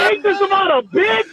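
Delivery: high, incredulous yell; exasperated shout. Retold or imitated. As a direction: shout your disbelief at the setup. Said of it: "I'm like".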